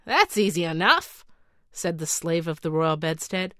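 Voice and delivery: lightly voiced, brisk magic servant; storybook genie voice. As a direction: play the slave of the bedstead lightly. Bedstead slave voiced in story.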